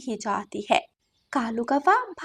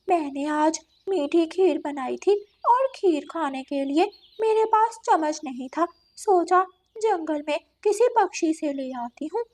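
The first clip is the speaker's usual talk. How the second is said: lightly voiced coaxing cat character; a touch of a wheedling cat; 6 semitones higher than usual. Cat asks crow for a spoon, lightly coaxing.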